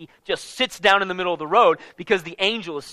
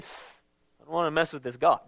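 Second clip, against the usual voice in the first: inner worry; 5 semitones lower, 6 dB quieter than usual. Retold or imitated. Balaam's fearful thought.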